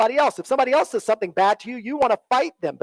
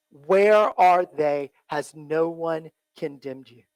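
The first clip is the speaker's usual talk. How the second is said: slow, gentle asking, drawn out; slow tender reading of Jesus's question; 6 semitones lower, slower than usual. Acted. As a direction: ask it slowly and kindly, like Jesus. Repeating Jesus's words slowly.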